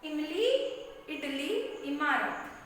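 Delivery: quick short i opening इमली, इडली, इमारत. Shown as a demonstration. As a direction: keep the first vowel of इमली, इडली, इमारत brief. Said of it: "छोटी ई का sound छोटा होता है".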